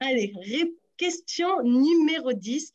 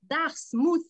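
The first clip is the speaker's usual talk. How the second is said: Dartmouth in a jokey English accent, slightly higher; mock English accent; 4 semitones higher than usual. Shown as a demonstration. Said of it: "avec mon super accent anglais".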